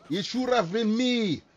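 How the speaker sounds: drawn-out mock-dramatic meme quote; lightly hammed-up anime lament, slowly. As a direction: act out the meme with slow, mock regret. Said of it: "doing the Yu-Gi-Oh meme".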